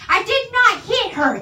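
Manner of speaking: overacted Tommy Wiseau denial shouted slowly; imitating Tommy Wiseau. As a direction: yell it in a hammed-up Tommy Wiseau accent. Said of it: "I'm just gonna try and copy his accent".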